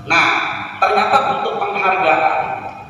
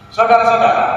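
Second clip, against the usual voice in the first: a hint of rally-speech address, lightly raised; Bung Karno oration; 3 semitones higher, 3 dB louder than usual. Shown as a demonstration. A trainer lightly mimics Bung Karno addressing the nation. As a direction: call out "Saudara-saudara" like an orator. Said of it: "Bung Karno itu mengatakan".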